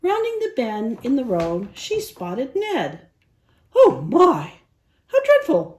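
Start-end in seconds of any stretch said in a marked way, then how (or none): 3.7-5.8 high, loud prissy gasp of dismay; exclaiming. Acted. Prissy spotting the injured dog, high shocked exclaim. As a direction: shriek it out in dainty horror. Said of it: "she exclaimed".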